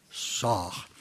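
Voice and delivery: ordinary talk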